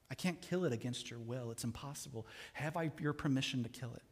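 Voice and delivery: calmly offer, unhurried; calm angel. Acted. Angel patiently asks the ghost for permission, steady and calm.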